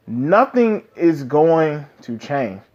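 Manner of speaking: slow, deliberate retold vow; mildly defiant, drawn-out delivery; retold firm refusal. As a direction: quote it word by word, unbudging. Retelling Eren's defiant refusal to Zeke.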